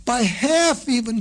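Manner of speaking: high, eager little frog voice. A narrator's reading. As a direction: pipe it up like a small frog. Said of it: "said another".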